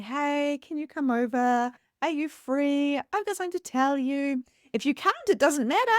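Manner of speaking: high, lilting retold phone voice; tentative invitation. Ringing Emma's mum to invite her over, tentative.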